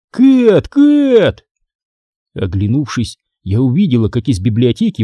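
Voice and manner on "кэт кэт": high-pitched call by name. A narrator's reading. Brother hailing his sister in the corridor, calling out. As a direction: call out high to catch someone's attention. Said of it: "кто-то окликнул меня по имени".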